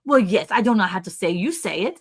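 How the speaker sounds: imitated French-accented reply; lightly voiced French accent, puzzled. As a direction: answer as the French neighbor, in her accent. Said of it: "Are you gonna do your French accent".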